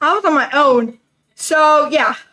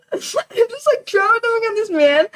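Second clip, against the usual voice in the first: higher-pitched, laughing retelling; 5 semitones higher than usual. Real, not acted. Storyteller laughing at oversharing to a date, laughing. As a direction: laugh while admitting it.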